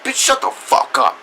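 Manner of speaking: high-pitched burst of angry contempt; furious outburst. Real, not acted. Reviewer lashing back at the mocked singer, furious. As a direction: cut her off with a sudden shriek.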